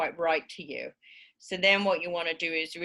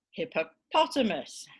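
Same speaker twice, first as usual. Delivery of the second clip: "hippopotamus" with the POT punched; middle-syllable stress; 3 semitones higher than usual. Shown as a demonstration. Teacher showing word stress, POT stressed in "hippopotamus". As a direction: hit POT in "hippopotamus", then fall away. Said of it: "the primary stress is on the middle syllable".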